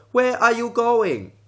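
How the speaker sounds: slow high-pitched Asian accent question; passable mock Asian accent. Shown as a demonstration. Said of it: "it's still relatively all right".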